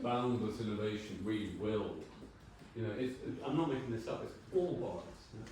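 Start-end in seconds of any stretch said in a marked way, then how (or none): 0.0-2.0 a light mock North American accent, a little louder; hammed-up American university slogan voice. Speaker mocking university slogans in a light North American accent. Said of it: "Hear what you have to say in a North American accent".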